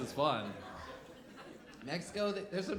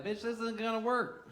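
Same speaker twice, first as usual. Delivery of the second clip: exasperated; 5 semitones higher than usual. Retold or imitated. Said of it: "I was like".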